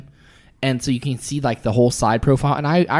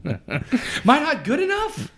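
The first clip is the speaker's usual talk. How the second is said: mock hurt; 11 semitones higher, 4 dB quieter, slower than usual. Jokingly jealous of teen idol.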